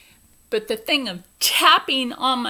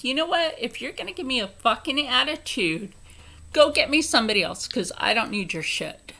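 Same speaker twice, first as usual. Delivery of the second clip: retold angry retort.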